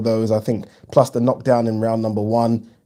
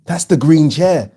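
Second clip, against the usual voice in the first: awed guest; 6 semitones higher, 5 dB louder, slower than usual. Retold or imitated. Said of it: "they're like".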